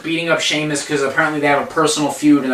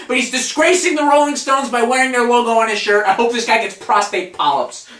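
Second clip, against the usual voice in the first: rising, high-pitched indignant tirade; exasperated rant; 5 semitones higher than usual. Real, not acted. Fed-up host rants about unknown celebrity, exasperated. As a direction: build from baffled questions to heated griping.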